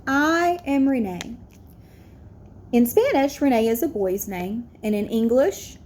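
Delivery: put-on a child reading her essay on stage, steady; reading an essay aloud. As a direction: read it carefully to the assembly.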